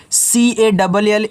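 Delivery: slow, deliberate letter-by-letter spelling; letters spelled out slowly. Shown as a demonstration. Teacher spelling an English word for children, slowly. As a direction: spell each letter apart for the class. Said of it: "teacher spells word letter by letter".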